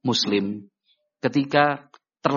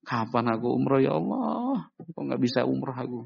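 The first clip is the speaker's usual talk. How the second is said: acted plaint, soft with a rising wail on Allah; sad lament; 5 dB quieter than usual. Believer watching friends leave for umrah, acted sad lament. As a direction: lament to God with a touch of weeping. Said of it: "harusnya sedih".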